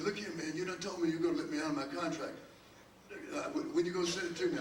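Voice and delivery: lightly imitated pushy singer; a hint of a friend pressing for his contract; mild mock complaint; a singer's voice. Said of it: "and he talked like this".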